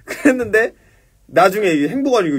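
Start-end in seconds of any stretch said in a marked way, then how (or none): none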